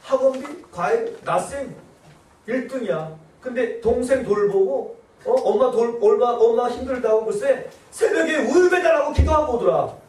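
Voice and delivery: shrill scolding mother, rising to a yell; nagging mother. Retold or imitated. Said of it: "엄마가". (딸을 비교하며 다그치는 엄마, 점점 높고 크게)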